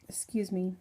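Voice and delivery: whispered excuse me. Real, not acted. Whispered aside mid-vlog.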